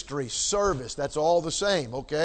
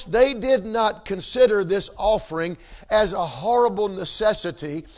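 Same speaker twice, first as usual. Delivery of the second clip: ordinary talk, nothing marked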